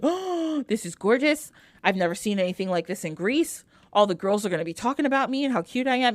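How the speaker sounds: gasp, then gush over a gift; delighted gushing. Acted. Glossy gushes over the gorgeous black robe, delighted gushing.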